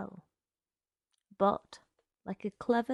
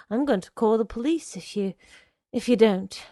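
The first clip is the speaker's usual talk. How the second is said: louder, halting warning; alarmed threat; 7 dB louder than usual. Acted. Girl warning the man outside, alarmed and halting. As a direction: push the threat out, breaking off midway.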